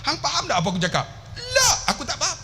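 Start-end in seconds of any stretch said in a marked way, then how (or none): 1.3-2.4 high-pitched "La"; retold denial. Pilgrim answering the Arab sheikh, high-pitched denial. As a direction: blurt it out high, mock bafflement.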